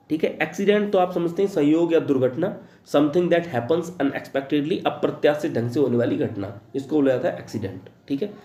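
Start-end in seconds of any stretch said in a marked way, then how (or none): 2.9-4.9 slow dictation. Shown as a demonstration. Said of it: "teacher dictates the definition".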